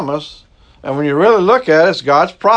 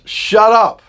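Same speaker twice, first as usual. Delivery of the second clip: holler; 5 semitones higher than usual. Retold or imitated. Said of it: "I will actually have to holler at the birds".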